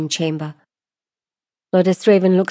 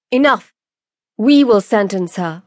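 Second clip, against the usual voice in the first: louder, higher cut-in; firm declaration; 3 semitones higher, 4 dB louder than usual. Acted. Presiding lordess silencing the hecklers, declaring firmly. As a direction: take command of the court. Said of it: "declares Lordess Raven".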